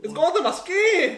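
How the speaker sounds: laughing. Real, not acted. Laughing at the burning pain.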